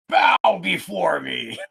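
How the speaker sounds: booming demon lord. Pretend. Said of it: "Red is probably in the flames going".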